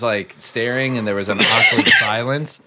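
ordinary talk

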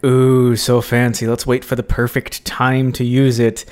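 lightly acted awe at a treasure; mock delight. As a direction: coo over it with eager anticipation. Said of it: "you're like".

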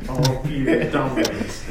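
giggling through the words; laughing. Real, not acted. Telling the story to friends, cracking up. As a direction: lose it while saying it.

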